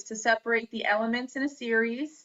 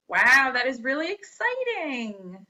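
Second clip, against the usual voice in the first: higher, louder, put-on thrill; excited exclamation; 3 semitones higher, 4 dB louder than usual. Shown as a demonstration. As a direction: sell the excitement. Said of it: "Emphatic declaration".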